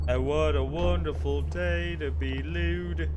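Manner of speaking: a silly, showy put-on voice; hammed-up sing-song voice. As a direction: play it like a cheesy morning greeting. Mock announcer line.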